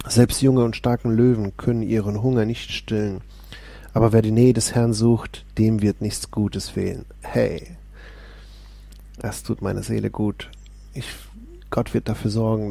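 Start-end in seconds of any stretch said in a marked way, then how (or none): 0.1-7.0 steady, proclaiming Bible reading; lifted, declaiming psalm voice; solemn scripture reading. Acted. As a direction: read the psalm as if preaching it. Reads Psalm aloud.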